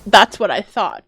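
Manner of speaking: mocking her own earlier line out loud; mock loud quote. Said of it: "she says as she murders herself".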